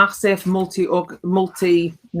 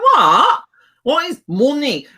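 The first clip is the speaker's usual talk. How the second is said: baffled retort; 5 semitones higher, 4 dB louder than usual. Retold or imitated.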